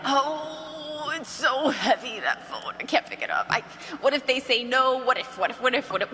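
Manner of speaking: hammed-up dread over a heavy phone. Saleswoman mocking a consultant afraid to pick up the phone. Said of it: "you could be dreading it".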